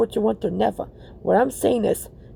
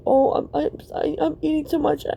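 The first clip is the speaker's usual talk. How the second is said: mock complaining, higher pitched; dumb-sounding complaint; 5 semitones higher than usual. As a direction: imitate a silly moaner in a raised voice. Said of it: "You know how dumb I sound?".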